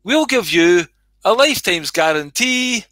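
a mildly voiced pushy salesman luring people in; church as salesman. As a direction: hawk salvation like a cheesy insurance salesman. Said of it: "It's like".

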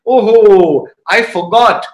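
loud, drawn-out oh-ho of remembering; mock dawning realization; retold sudden realization. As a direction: act out suddenly remembering you forgot.

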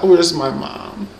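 high, thin wail for mommy; hammed-up frightened kid crying out for mom; scared child. Frightened kid left alone with a singer, high mock wail.

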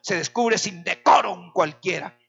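a touch of mock sarcasm; lightly voiced scornful Mical; sarcastic. Mical greets David returning, mildly sarcastic and scornful. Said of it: "le dijo con cierta sorna".

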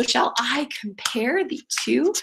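slow "shall I comPARE the TWO", every second syllable weighted; heartbeat stress. Shown as a demonstration. Teacher points out the sonnet's heartbeat, slow iambic stress. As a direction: lean on "I", "PARE" and "two". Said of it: "it has that heartbeat in it".

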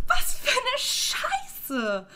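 high, slow, laughing-crying complaint; whiny outcry. Real, not acted. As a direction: wail in disbelief. Exasperated outcry at cousin.

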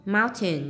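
"mountain" stressed on MOUN; stress on first syllable. Shown as a demonstration. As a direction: lean on the opening syllable of "mountain". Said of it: "nhấn âm một". ("mountain" nhấn mạnh âm tiết đầu)

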